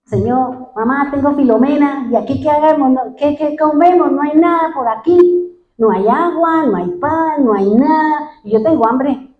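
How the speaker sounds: a hint of a complaining teenage boy; hungry boy whining. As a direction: play the hungry son lightly pleading with his mom. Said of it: "y el chino diciendo".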